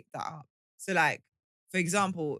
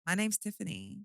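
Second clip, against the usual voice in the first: attempted Californian introduction; American Tiffany from California; American accent; 2 semitones higher than usual. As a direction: put on a light Cali-girl American accent. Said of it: "best American accent".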